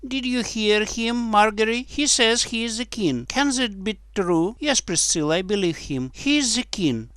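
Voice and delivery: put-on high-pitched girlish chatter; little girls. A narrator's reading. Priscilla and Margery discuss the boy, high girlish voices.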